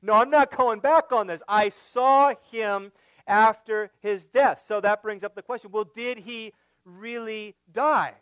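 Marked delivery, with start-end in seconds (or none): 0.0-4.6 defiant disciples. Acted. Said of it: "all died saying".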